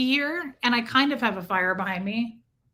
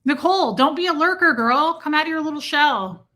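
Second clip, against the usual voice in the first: louder, higher coaxing call; 4 semitones higher, 6 dB louder than usual. Real, not acted. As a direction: call the shy viewer out teasingly. Calling out a lurker.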